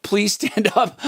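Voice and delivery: high, jokey call-out with a laugh; mock announcer. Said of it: "Then he says".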